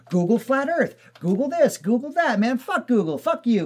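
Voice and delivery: hammed-up retelling of a guy losing it online; mock ranting stranger. To friend, imitating the guy ranting about Google, mock angry.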